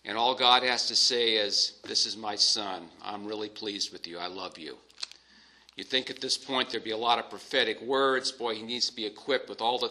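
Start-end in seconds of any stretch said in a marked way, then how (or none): 1.8-4.8 tender fatherly voice. Acted. Preacher voicing God's tender words to his Son, hushed and gentle. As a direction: let the love settle in quietly. God speaking tenderly to Jesus.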